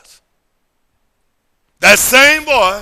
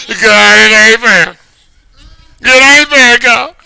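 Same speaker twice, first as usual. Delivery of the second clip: retold lament; 4 semitones higher, 6 dB louder than usual. Retold complaint to God.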